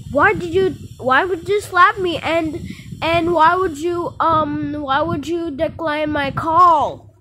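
high, loud hurt shouting; outraged shout. Acted. Slapped kid yells at her sister, outraged.

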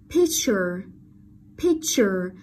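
picture with a crisp ch in -ture; ch sound. Shown as a demonstration. Teacher points out the ending, picture with a clear ch. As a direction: model "picture", marking the CH clearly. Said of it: "đuôi tờ u là dấu hiệu của âm".

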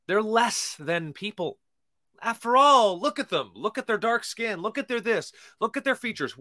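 high, sneering mock of the old argument; mocking slaver. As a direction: ape the scornful slaver. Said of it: "that was the argument".

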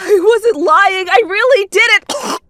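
high, loud, frantic denial; panicked wife shouting back; desperate protest. Acted. Mother desperately protests, cut off.

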